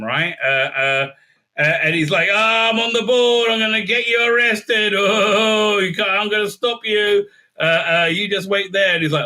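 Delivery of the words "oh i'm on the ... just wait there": lightly hammed-up powerful villain, pitched up; mock threats with some power behind them; Brett Spiner. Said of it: "Brett Spiner's got some power behind him".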